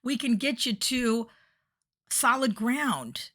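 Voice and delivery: lightly hammed-up yelling from the boat; mock yelling. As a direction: call them back across the water. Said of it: "people are yelling".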